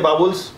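बाबुल्स with a b sound, imitating a common mistake; mispronounced vowels. Teacher imitating students who mispronounce vowels. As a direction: say बाबुल्स the way some people wrongly do. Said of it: "कोई लोग बोलते हैं बाबुल्स".

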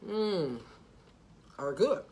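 talking while chewing; muffled through food; mouth full. Real, not acted. Seen 0: bites wedge at -1.0, closed chewing mouth during words.

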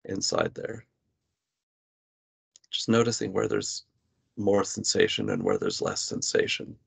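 measured meditation guidance with long pauses; guided body scan. Real, not acted. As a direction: guide the listener gently into body awareness, pausing between phrases. Leads a body scan exercise.

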